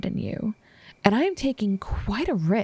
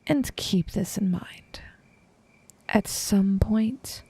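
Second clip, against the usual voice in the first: slow, deliberate whisper; slower than usual. Acted. Assassin warning the heir before leaving, slow whisper. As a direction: draw it out in a slow hush.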